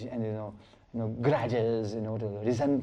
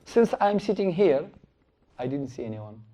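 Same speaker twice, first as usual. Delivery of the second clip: sly Brahmana. Acted. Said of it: "He just changed his asana".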